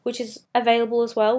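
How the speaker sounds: hoarse, strained throat; pushing through a raspy voice; voice giving out. Real, not acted. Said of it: "Sorry, I'm dying".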